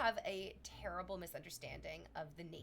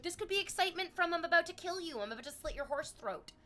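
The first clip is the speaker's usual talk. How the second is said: horse's inner voice; 10 semitones higher, 7 dB louder than usual. Retold or imitated. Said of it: "The animal might just be like".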